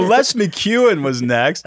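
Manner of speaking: put-on slow, high, failed try at a Scottish accent; attempted Scottish accent. Host introducing Les McEwen in a failed slow Scottish accent. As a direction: put on a clumsy Scottish accent, dragging each word. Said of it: "That was not even a Scottish accent that I just did".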